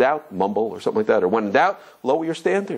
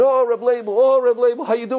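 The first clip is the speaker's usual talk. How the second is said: hearty greeting; 8 semitones higher than usual. Retold or imitated. Guests greeting warmly.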